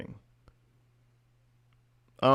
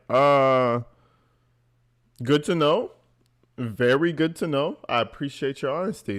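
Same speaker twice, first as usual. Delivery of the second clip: awkward polite response; 2 semitones higher than usual. Acted. Streamer acting out his response to her confession, awkwardly polite. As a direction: feign appreciation with rising tune. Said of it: "I'd be like".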